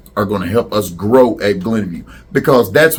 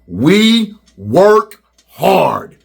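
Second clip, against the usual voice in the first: with some power; 7 semitones higher, much slower than usual. Shown as a demonstration. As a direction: belt it out like a pep rally cry. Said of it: "say it with some power".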